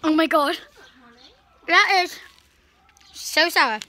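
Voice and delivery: loud startled reaction to sourness; sour shock. Real, not acted. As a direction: blurt it out, puckered by the sour taste. Tasting the sour powder.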